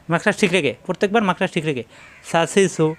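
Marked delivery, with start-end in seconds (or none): 2.2-2.9 no delay. Shown as a demonstration. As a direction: run সা, সি, সু together without stretching. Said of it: "কোনো দেরি করা যাবে না". (দেরি না করে ছোট ছোট সা, সি, সু)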